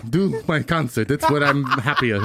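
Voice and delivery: Manny Pacquiao. Retold or imitated. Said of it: "if he got beat up".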